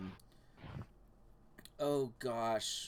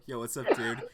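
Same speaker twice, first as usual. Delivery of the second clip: bro voice; 3 semitones lower, 5 dB louder than usual. Retold or imitated. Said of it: "I immediately just go".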